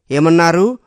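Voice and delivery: almost yell it back; near shout. Acted. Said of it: "పెద్ద స్వరంతో అరిచినంత పని చేసింది".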